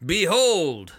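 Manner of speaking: lightly voiced court herald; a hint of a pompous crier; town crier. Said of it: "voices that are supposed to be recognizable".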